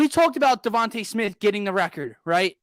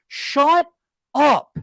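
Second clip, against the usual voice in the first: exasperated shout; 5 semitones higher, 6 dB louder than usual. Real, not acted. Disbelief at the analysts.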